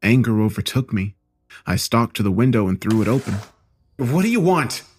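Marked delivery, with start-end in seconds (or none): 4.0-4.8 hissed. Acted. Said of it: "I hissed".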